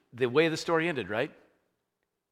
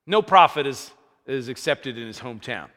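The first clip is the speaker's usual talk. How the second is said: louder, forceful declaration of the verse; bold proclamation; 10 dB louder than usual. Retold or imitated. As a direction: proclaim it boldly to the crowd. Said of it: "Jesus goes".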